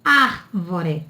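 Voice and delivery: "árvore" as "AR-vo-re", first R sounded; correct sounded R. Shown as a demonstration. Teacher correcting the wrong form, R clearly sounded. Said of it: "Não é árvore".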